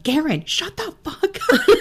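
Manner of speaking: high, slow mock rebuke of Garin, laughing through it; mocking royal voices. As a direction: squeak it out high and slow, cracking up. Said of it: "they're both like".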